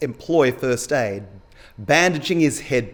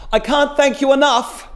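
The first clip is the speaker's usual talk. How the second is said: high, raised calling-out voice; calling after her; 12 semitones higher, 5 dB louder than usual. A narrator's reading. Cyclist to departing woman, calling out. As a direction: call your thanks to someone walking off. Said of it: "the cyclist calls after her".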